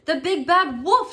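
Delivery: high, loud frightened shriek. A narrator's reading. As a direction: shriek it in terror. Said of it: "shrieked the super pig".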